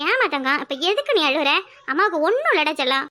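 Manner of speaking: put-on soothing a child. Mother soothes crying child.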